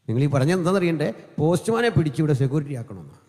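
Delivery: usual speaking voice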